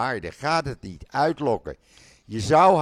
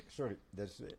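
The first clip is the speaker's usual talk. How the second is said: husky, much softer after coughing; talking through a dry throat; 14 dB quieter than usual. Real, not acted. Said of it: "de droge lucht".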